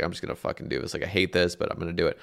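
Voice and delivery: reliving a lonely dawn raid, whispered to himself; grim mutter to self. Retold or imitated. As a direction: grumble it under your breath. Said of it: "And I was just like".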